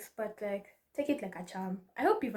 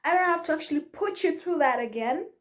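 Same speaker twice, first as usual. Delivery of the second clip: voice of the universe; 5 semitones higher, 5 dB louder than usual. Retold or imitated. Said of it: "the universe is like".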